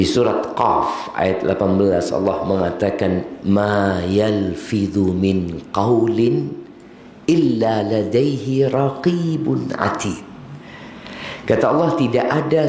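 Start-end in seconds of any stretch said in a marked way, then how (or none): 3.5-10.2 Quran recitation. Acted.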